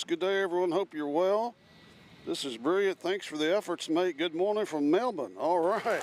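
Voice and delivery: mock Australian accent. Reading a Melbourne viewer's greeting aloud in a mock Australian accent. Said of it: "always makes fun of my Australian accent".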